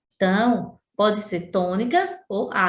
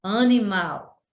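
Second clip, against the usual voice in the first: animal drawn out slowly, stressing mal; slow teaching demo of animal, strong final mal; stress on final syllable; slower than usual. Shown as a demonstration. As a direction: stretch animal and lean on mal. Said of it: "Mal é a sílaba tônica".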